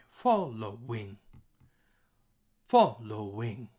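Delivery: Following slowly in three beats, FOL stressed; high, low, high. Shown as a demonstration. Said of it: "we have high, low, high".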